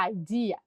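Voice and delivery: "Idea" opening on an "eye" sound; teacher demonstrating the first vowel of "Idea"; vowel sound demo. Shown as a demonstration. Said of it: "o we tem som de I".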